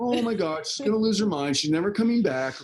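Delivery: high-pitched, retold fretting; exaggerated worried inner voice; mock panic. Retold panic over daughter leaving.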